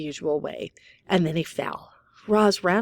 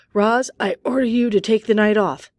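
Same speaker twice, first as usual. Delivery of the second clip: loud, laughing command in jest; mock order with a laugh; dad laughing as he sends the robot off duty; 5 semitones higher, 8 dB louder than usual. A narrator's reading. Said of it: "Mister Sharif laughed".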